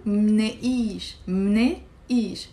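"mneish" as one syllable, the mn cluster together; Lebanese plural mneish. Shown as a demonstration. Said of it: "we can say mne".

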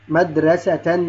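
"مدرسة" ending in -tan; "مدرسة" pronounced madrasatan with a held final n; tanween fath. Shown as a demonstration. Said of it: "فتحتان لا نضيف ألف".

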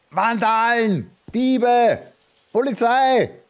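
loud hammed-up cries for help; mock calling out. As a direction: shout them out like a fake alarm.

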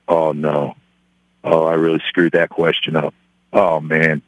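low, sinking inner voice; dismayed self-talk. Retold or imitated. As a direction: retell a sinking realisation, low and deflated. His inward dismay at failed interview.

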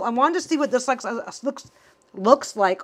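tripping over repeated words; stuttering. Real, not acted. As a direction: get stuck on looks. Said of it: "and now I'm stuttering".

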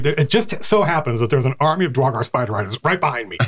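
chuckling through the line; grinning in character; laughing, amused abbot. Acted. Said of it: "He's like".

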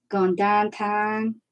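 slow, stretched Pittsburgh accent. Shown as a demonstration. Crafter showing off her accent, slow Pittsburgh vowels. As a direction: draw the words out in Pittsburgh speech. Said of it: "How's that for my Pittsburgh accent?".

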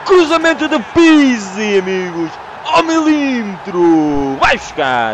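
slow, loud, savoured call; loud, slow commentator-style call; excited play call. Real, not acted. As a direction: relish every word of the cross. Narrating his own great cross.

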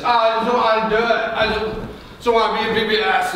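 fast, grudging mock whine; imitating a volunteer who doesn't want the job; reluctant whine. Reluctant teacher mocked by pastor, fast whiny grumble. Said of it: "that person approaches it like this".

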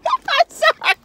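high, helpless laughing words; laughing apology. Real, not acted. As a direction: squeeze the apology out through laughter. Cracking up at own joke.

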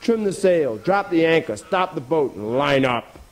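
commanding captain. Acted. Captain ordering boat stopped and animals lined up, commanding. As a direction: fire off each command, landing the last.

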